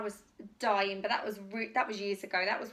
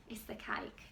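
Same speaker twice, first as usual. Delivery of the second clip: mock confession; 2 semitones lower, 9 dB quieter than usual. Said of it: "I'm lying".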